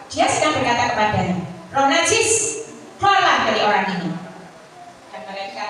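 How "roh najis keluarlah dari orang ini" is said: a firm, louder command to the unclean spirit; commanding rebuke. Acted. Preacher voicing Jesus casting out a spirit, commanding and firm. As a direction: order the spirit out, firmer and faster.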